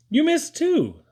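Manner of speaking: high, loud mock jab; father ribbing his son; teasing. A narrator's reading. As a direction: toss it off with a high teasing lilt. Papa teasing the boy.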